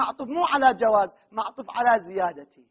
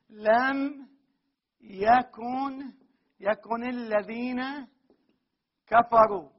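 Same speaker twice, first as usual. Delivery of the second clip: slow linking demo; much slower than usual. Shown as a demonstration. Teacher telling students to notice the slow linking. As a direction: spell out لم يكن الذين very slowly, word by word. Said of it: "لاحظوا".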